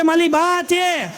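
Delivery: high, slow stammered reply; mock stammer. Stammering man slowly says it's his grandma.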